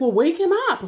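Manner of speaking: mock-exasperated mom ordering it, pitch jumping up; mom's insistent retort. Acted mom's exasperated reply.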